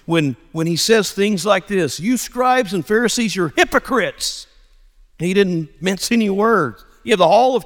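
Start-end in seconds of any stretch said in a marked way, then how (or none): 2.0-4.5 raised pitch, pointed accusation; retold confrontation, higher than usual; very direct rebuke. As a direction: call them out directly, pitched up. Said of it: "he gets very direct with the Pharisees".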